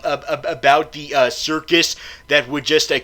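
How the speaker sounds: ordinary talk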